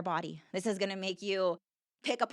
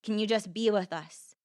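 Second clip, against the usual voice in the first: voice of her heart. Retold or imitated. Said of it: "it was like my heart".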